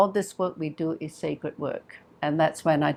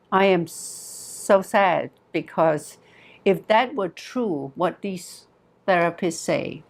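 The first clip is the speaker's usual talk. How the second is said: retold sadness. Client telling therapist she cannot forgive her father, mildly sad. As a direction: gently imitate a sad, tearful plea without crying. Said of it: "very sadly, and tears start to flow".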